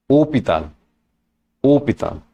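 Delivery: "Hôpital" with a weighty, musical ô; "Hôpital" said with a heavier first vowel; heavier circumflex vowel. Shown as a demonstration. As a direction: lean on the opening ô of "Hôpital". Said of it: "makes the sound a bit heavier".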